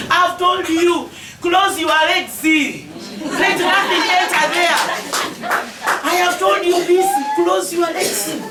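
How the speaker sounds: slow, drawn-out motherly scolding; emphatic admonishing. Real, not acted. Mother figure lecturing schoolgirls on staying out of pregnancy, slow emphatic admonishing. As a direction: stretch each phrase out as a stern reminder.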